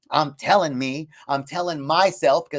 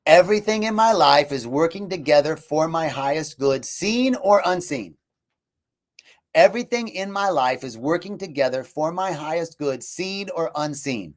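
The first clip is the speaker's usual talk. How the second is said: mantra; 3 semitones higher than usual. Shown as a demonstration. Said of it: "wrap up with this mantra".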